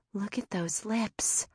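soft, slow awed whisper; hushed in admiration. A narrator's reading. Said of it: "Michelle whispered".

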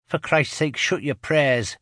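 high, loud exasperated yell. A narrator's reading. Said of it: "yells Ginger".

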